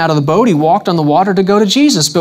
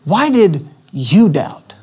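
gently, as a caring friend would ask "Why did you doubt?"; slow, tender version of "Why did you doubt?"; gentle question; slower than usual. Shown as a demonstration. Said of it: "get the essence of it again".

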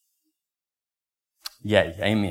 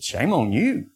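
mock scolding; much slower than usual. Friend scolding pastor.

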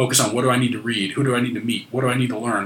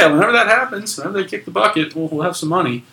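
higher, breezy put-on voice; mock carefree voice; 8 semitones higher, 4 dB louder than usual. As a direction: shrug it off as no big deal. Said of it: "she's just like".

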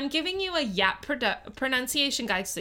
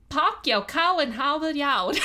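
New Orleans Yat, cow for car; light Yat accent demo; 3 semitones higher than usual. Shown as a demonstration. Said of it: "This statement in Yat would be".

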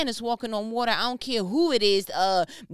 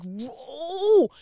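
louder, laughing whoa of surprise; surprised laugh; 5 semitones higher, 6 dB louder than usual. Real, not acted. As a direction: caught off guard, laughing. Surprised by Holy Spirit's point.

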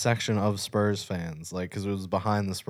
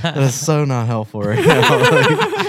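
laughing disbelief; 6 semitones higher, 10 dB louder, slower than usual. Retold or imitated. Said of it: "I was like".

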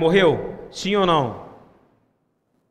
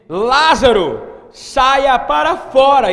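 Jesus's cry; 6 semitones higher, 8 dB louder, much slower than usual. Retold or imitated. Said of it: "e disse chorando".

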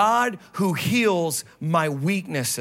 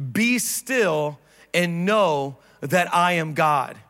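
slow reading; slower than usual. Acted. Pastor reading scripture with the church, slow and measured. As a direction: read "Be still and know that I am God" slowly and deliberately. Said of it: "Let's read it together".

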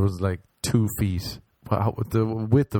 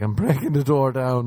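raised pitch, retold defiance; defiant announcement; 5 semitones higher, 3 dB louder than usual. Drunk man answers hotel man, defiant insistence. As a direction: insist on it, mock-determined.

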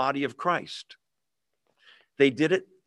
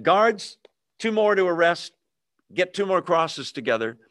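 commanding order; 4 semitones higher than usual. Pretend. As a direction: call the guards like an annoyed governor. Pilate ordering guards to arrest.

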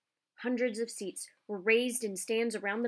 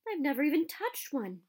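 envious moan; 6 semitones higher than usual. Acted. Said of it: "Ron moaned enviously".

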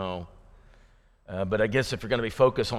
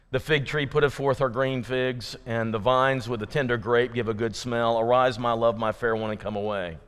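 formal scripture reading. Retold or imitated. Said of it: "here's what it said".

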